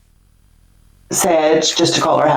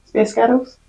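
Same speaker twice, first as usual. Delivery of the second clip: laughing Scottish try; 3 semitones higher than usual. Real, not acted.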